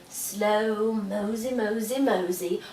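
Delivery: drawn-out, lazy moseying; slow and lazy. Shown as a demonstration. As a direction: drag the words out lazily. Acts out slow light.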